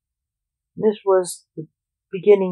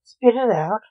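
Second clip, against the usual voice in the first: mild impatient snap; 3 semitones higher than usual. Acted. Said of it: "snapped Blake impatiently".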